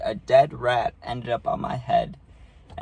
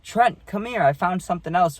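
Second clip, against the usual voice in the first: grandma calling; 6 semitones higher than usual. Retold or imitated. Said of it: "she's like".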